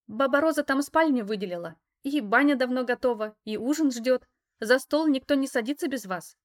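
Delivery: put-on high, loud eager girl voice; chirpy girl. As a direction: rattle it off like an excited girl. Alisa lists the plans eagerly.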